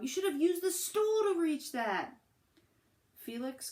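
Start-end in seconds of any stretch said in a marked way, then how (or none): 0.0-2.2 higher, louder mom's scold. A narrator's reading. Mom scolding Felix about the stool. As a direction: tell him off, still heated. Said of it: "yelled his mom".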